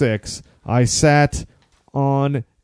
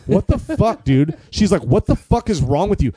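put-on angry girlfriend; 5 semitones higher than usual. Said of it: "she got mad at me".

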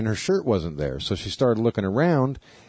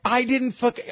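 high squeaky denial; indignant guy; 14 semitones higher than usual. Retold or imitated. Accused guy denying it, high squeaky voice.

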